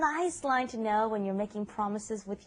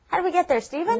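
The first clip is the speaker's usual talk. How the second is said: puzzled tourist; 7 semitones higher, 5 dB louder, faster than usual. Acted. Acting out lost tourist asking.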